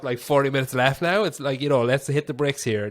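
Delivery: mock urging to get on with it; retold exasperation. Student with little class time left, retold impatient exasperation. Exasperated reaction to pedantic lecturer.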